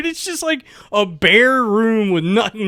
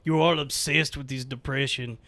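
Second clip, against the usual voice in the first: put-on Russian accent; 3 semitones lower, 6 dB quieter than usual. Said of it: "She goes".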